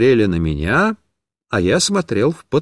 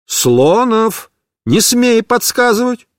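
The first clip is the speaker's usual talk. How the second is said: sharp, higher scolding; angry teacher; 8 semitones higher, slower than usual. Acted. Teacher angrily forbids Mishka to prompt. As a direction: snap at the boy who prompts. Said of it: "уже рассердилась".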